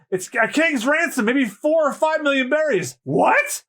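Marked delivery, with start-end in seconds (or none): 3.0-3.6 high squeak of shock; shocked high what. Acted. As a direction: gasp it out in shock. Shocked at the sum.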